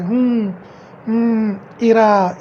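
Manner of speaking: stalling hums with short pauses; hesitation fillers. Shown as a demonstration. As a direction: hum as if hunting for the forgotten word. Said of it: "इस तरह के word use करें". (अटककर सोचने वाली हम्म)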